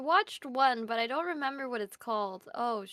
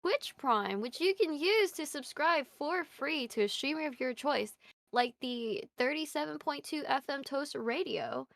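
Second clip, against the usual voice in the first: ad read. Acted. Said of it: "That was really smooth".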